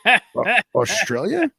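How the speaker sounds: high, loud incredulous "Australia?"; shocked disbelief. Retold or imitated. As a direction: blurt it out in total disbelief. Incredulous at Alice Springs.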